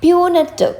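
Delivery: "Punitive" high, falling on the last syllable; pronunciation demo. Shown as a demonstration. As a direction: model "Punitive" clearly for learners. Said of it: "നമുക്കിനി എന്താന്ന് നോക്കാം".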